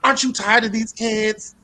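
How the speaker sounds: high teasing taunt ending in a shout; mock goading; taunting urge. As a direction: goad her on. Urging mother to hit kids.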